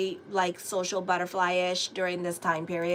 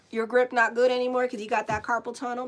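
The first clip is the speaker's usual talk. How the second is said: louder, teasing taunt; loud mocking; 5 dB louder, faster than usual. Real, not acted. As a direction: rub it in, louder. Taunting a viewer, louder repeat.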